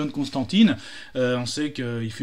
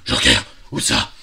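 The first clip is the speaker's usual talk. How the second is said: startled yelp; 13 semitones lower, 6 dB louder than usual. Acted. Frightened hero startled by Joker's name.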